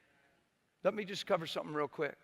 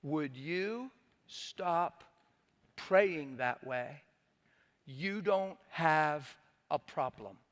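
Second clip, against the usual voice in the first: calm; much slower than usual. Retold or imitated. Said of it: "The Lord said".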